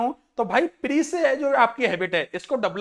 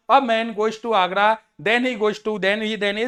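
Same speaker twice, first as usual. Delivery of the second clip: slow loud reading aloud; much slower than usual. Shown as a demonstration. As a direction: read it out slowly, word by word. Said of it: "अगर मैं आपको बोलना चाहूँ तो ये ऐसे पढ़ना है". (धीरे-धीरे ज़ोर से पढ़ना)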